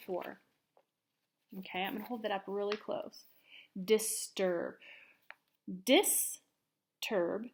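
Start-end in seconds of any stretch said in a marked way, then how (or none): 5.9-7.5 whispered. Shown as a demonstration. Teacher whispering Disturb to class, whispered. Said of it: "teacher models word for students".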